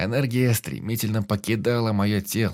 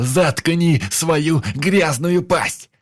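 much higher, loud, dragged out; slow furious yell; 8 semitones higher, 7 dB louder, much slower than usual. Acted. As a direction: hurl each word slowly. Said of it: "уже кричал я".

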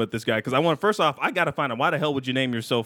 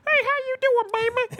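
much higher, sultry radio host impression. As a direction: purr it like a late-night hip-hop DJ. Imitating radio host Precious.

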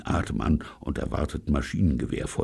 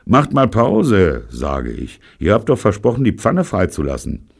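protesting; 5 semitones higher, 7 dB louder than usual. A narrator's reading. Robert protests being dragged.

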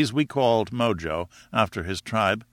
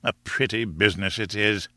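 mildly bitter professor; understated sour grumble, pitched near the usual voice; 4 dB quieter than usual. Acted. Professor grumbles about the sealed instructions, mildly bitter. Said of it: "cried the professor bitterly".

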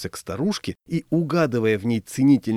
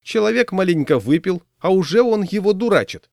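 high, loud scolding granny; high-voiced old lady's reproach; disapproving old woman; 8 semitones higher, 5 dB louder than usual. A narrator's reading. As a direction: take the drunk's side indignantly, pitched up. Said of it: "неодобрительно сказала старушка".

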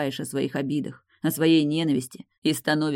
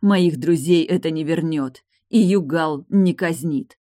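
bitter outburst; 7 dB louder, slower than usual. Acted. Tilda's grief-stricken outburst.

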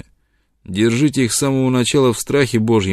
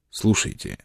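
hushed, secretive whisper; mysterious whisper; 6 dB quieter than usual. Acted. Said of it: "начал он таинственно".

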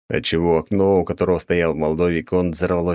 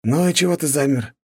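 higher, goading sneer; taunting; 8 semitones higher than usual. A narrator's reading. Cruel viscount taunting the janitor, mocking goad. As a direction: needle the servant like a bored young lord. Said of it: "подначил дворника Михаил".

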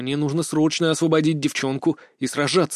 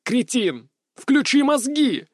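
much higher, slow yelled command; inner yell; 9 semitones higher, slower than usual. A narrator's reading. Inner voice yelling at the hero, high and slow. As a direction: bellow it from inside. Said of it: "заорало что-то внутри меня".

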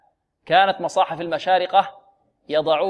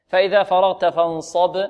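recitation demo. Shown as a demonstration. Teacher recites verse for class.

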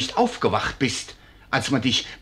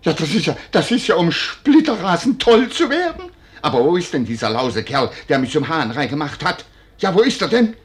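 raging curses. Acted. Husband raging at his wife over the unexpected child, furious shouting. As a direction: spit out each threat in a fury. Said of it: "dass ihr tobt und wütet".

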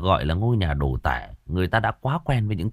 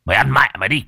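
growled order; 4 semitones higher, 4 dB louder, much faster than usual. Acted. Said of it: "Sơn gằn giọng".

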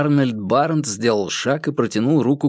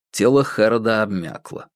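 plain reading voice

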